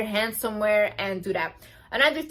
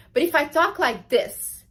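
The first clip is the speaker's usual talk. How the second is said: animated, engaged demo with more energy; lively delivery; 5 semitones higher, 3 dB louder than usual. Shown as a demonstration. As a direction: show the lively way to talk. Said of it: "and I use hand gestures".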